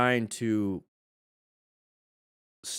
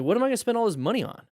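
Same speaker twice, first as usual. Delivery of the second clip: incredulous quote; 11 semitones higher, much faster than usual. Retold or imitated. Mock-quoting a spender's question.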